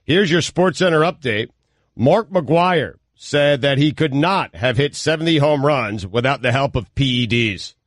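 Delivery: measured newsreader delivery; sports news update. Real, not acted. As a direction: read it as a radio bulletin.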